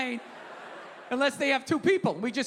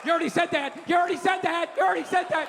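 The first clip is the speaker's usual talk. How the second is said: mocking heckle; faster than usual.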